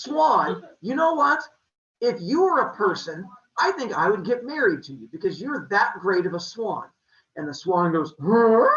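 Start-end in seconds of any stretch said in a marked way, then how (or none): 0.0-6.9 gushing. Acted. Leto gushing to the swan she adores, excited. 8.2-8.7 startled huh. Acted. Swan reacts to proposal.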